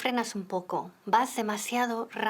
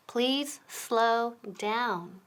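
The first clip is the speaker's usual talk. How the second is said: very slow whispered example; much slower than usual. Shown as a demonstration. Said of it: "For example".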